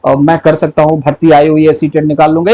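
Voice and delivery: lightly acted thinking to oneself, low-pitched; imitating inner thoughts. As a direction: run through worries and hopes as private self-talk. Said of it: "ये मन में सोच रहे हो".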